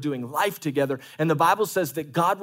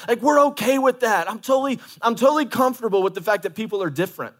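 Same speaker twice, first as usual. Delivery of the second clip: high, loud fervent preaching; preaching at full force; 7 semitones higher, 3 dB louder than usual. Real, not acted. Pastor urging church to try small groups.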